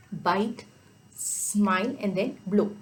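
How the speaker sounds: slow, deliberate step-by-step; slow demo. Shown as a demonstration. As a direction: pause on each step, slowly. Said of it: "like this".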